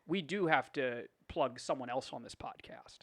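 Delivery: hushed conspiratorial whisper, a little slow. Real, not acted. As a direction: lean in and whisper the secret. Conspiratorial aside about plugging a guest.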